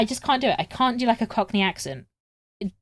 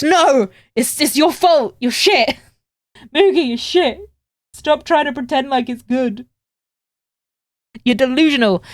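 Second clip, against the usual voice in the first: hammed-up scolding rant, higher and louder; a mock tell-off of her own sewing, loud; 6 semitones higher, 6 dB louder than usual. Voicing a critic of the sewing.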